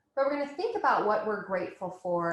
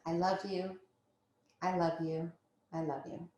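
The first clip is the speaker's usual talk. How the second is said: soft affirmation; 5 dB quieter than usual. Acted. Affirmation chant.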